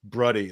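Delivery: Bruddy, blending brother and buddy; made-up word bruddy. Shown as a demonstration. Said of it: "That's a combination of brother and buddy".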